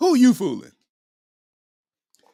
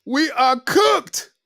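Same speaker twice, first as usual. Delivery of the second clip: very slow, drawn-out defeat; slow mock doom; 5 semitones higher, much slower than usual. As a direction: sigh it out like it's over. Comic despair.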